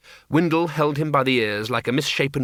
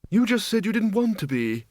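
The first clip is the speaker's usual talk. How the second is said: mild, higher-pitched reminder; mildly reasonable, raised character pitch; 9 semitones higher than usual. Acted. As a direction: point it out gently, without force. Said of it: "said Windle mildly".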